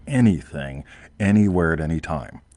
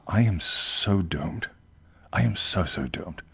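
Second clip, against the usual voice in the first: mock despair; 3 dB quieter, slower than usual. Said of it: "a part of me that goes".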